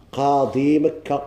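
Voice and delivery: قاضي مكة read slow and deliberate; teacher's slow model reading; slow example phrase. Shown as a demonstration. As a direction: dictate قاضي مكة slowly for the class. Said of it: "example phrase".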